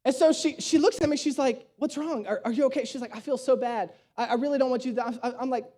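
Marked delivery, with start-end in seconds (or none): 1.8-2.8 softly voiced worried date; retold soft, hesitant check-in; gently concerned. Date asks him what's wrong at the price tag, gently concerned. Date's worried question in the story. 3.1-5.0 soft, low retold apology; apologetic. Date feels bad about the cost, softly apologetic.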